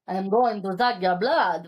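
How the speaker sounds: a quick hint of a campy bloodsucker; cheesy vampire.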